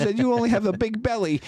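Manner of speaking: put-on very high pouty child voice; upset son. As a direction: imitate a little boy protesting. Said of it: "that's what he said to me".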